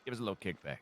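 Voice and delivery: muffled, like talking through water; bubbling underwater mic sound. Real, not acted. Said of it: "Sound like you're underwater".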